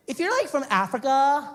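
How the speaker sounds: put-on high, loud surfer-girl questioning; California babe. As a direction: lead in like a ditzy beach girl. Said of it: "California babe".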